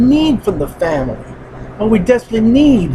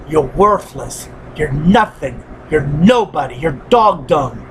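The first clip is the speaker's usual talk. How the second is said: inner critic voice; 3 semitones lower than usual. Retold or imitated. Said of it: "we hear inside the words".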